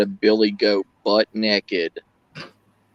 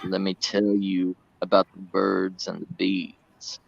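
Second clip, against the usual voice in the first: put-on old Southern accent; 4 semitones lower than usual. Streamer shows chat his old Southern accent, slow drawl. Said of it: "I used to have a worse Southern accent".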